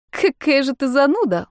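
smiling tease. A narrator's reading. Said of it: "улыбнулась её подруга".

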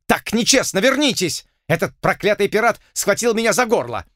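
cheated colonel calling after him; whining colonel. A narrator's reading.

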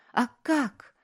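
a mild tearful wail; crying harder. A narrator's reading. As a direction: break into tears on the question. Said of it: "заплакала она сильнее".

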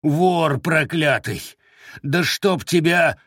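furious slow curse. Acted. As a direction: spit the curse out slowly. Bound man curses the thief.

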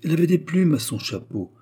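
put-on high, loud gossipy old widow; gossiping concierge. A narrator's reading. Concierge describes Eugénie to Léon, high loud gossiping voice. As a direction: pile on the scandal in a high voice. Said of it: "poursuivit la veuve".

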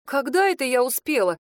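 mildly outraged protest; sincere indignation. Acted. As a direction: bristle at the accusation. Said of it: "искренне возмутилась я".

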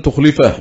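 تخلفه said tukhlifah; kasra on lam. Shown as a demonstration. Teacher showing Ibn Kathir's reading, تخلفه with kasra on the lam. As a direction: put an i vowel on the ل of تخلفه. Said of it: "بكسر اللام".

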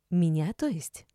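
ordinary delivery

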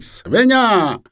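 high, drawn indignant insult; angry cry. A narrator's reading. Shamed lady beating Dmytro with ladle, angry cry. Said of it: "кричить".

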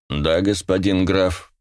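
slow, smooth voice with a metallic hint; a polite computer with a slight metal tinge; pleasant metallic AI voice. Acted. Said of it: "приятный, слегка отдающий металлическими нотками голос". (приятный голос с металлическими нотками)

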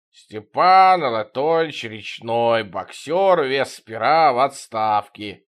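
put-on slow old man voice. Old boxer introduces himself.

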